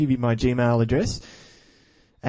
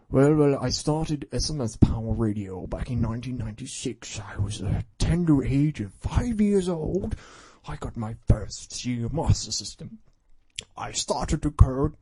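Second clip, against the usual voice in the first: mock reading aloud. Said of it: "how stupid it would sound if I was reading".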